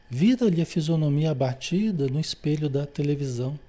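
measured, lightly formal read-aloud; book reading. A narrator's reading. Teacher reads a spiritist narrative to students, measured book reading. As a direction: read the passage out to a study group.

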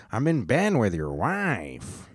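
slow, smug lightly voiced Pete; a touch of a smug Pete Davidson taunt; imitating Pete Davidson. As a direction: drawl it out like a smug rival. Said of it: "why he talks like that in my head".

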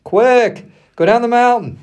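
high, loud urgent order; urgent command. A narrator's reading. God urgently orders Moses down.

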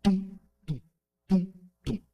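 "tum" beats in an even pulse; binary beat. Shown as a demonstration. Teacher drumming a binary beat with "tum". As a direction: drum out two beats with "tum". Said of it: "É um ritmo binário".

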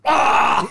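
high retold cry of disgust; mock yell into toilet. Waking with puke in his hands, mock cry. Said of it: "and then just went".

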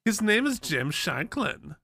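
hammed-up Hans and Franz German; comic German accent with hard consonants; mock German accent. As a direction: imitate a bad German actor. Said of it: "very good Hans and Franz accent".

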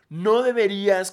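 loud, slow, scolding verdict; mock stern judge; judgy commenter. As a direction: pronounce it like a judge. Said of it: "como en un juicio".

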